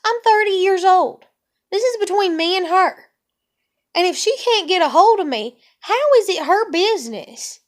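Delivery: mock-replay of telling grandma off, voice climbing; exasperated retort. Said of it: "I'm just like".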